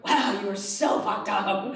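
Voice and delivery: slow deadpan put-down; slow mocking verdict. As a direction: drag it out, unimpressed. Deadpan reply to girlfriend.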